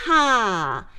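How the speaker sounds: loud projected yeehaw; big breath, project the yeehaw out. Shown as a demonstration. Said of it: "Breathe and project, then".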